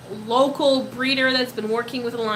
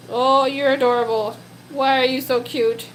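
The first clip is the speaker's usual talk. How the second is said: louder doting gush; 5 dB louder than usual. Real, not acted. Doting on pet.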